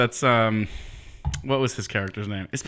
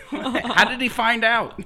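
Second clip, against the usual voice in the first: high laughing question; 13 semitones higher, 3 dB louder, slower than usual. Real, not acted. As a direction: ask it through laughter.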